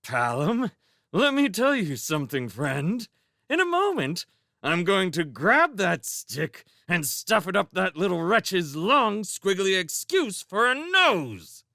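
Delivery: high, tight forced grin with fury; through clenched teeth. Acted. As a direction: seethe behind a fake smile. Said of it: "grinning furiously ... from between clenched teeth".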